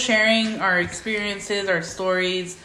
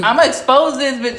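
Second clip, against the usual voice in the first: laughing; 3 semitones higher, 6 dB louder than usual. Real, not acted. Joking threat while laughing.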